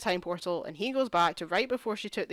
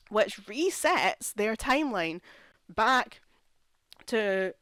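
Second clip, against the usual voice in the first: angry; slower than usual. Real, not acted. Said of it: "I'm getting so angry".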